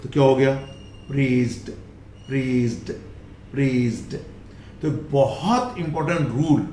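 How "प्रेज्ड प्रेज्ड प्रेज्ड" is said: प्रेज्ड said as "prezd"; प्रेज्ड repeated, ending on ड; final d sound. Shown as a demonstration. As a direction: drill प्रेज्ड with a voiced z and d. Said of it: "जोड़ दीजिए डी".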